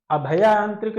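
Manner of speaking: अभयांत्रिक with short a and "bha"; wrong spelling read out. Shown as a demonstration. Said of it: "नहीं".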